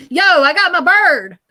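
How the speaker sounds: high, loud, laid-back "Yo"; cool guy voice. Retold or imitated. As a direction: brag like a cool dude. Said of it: "That's exactly how he said it".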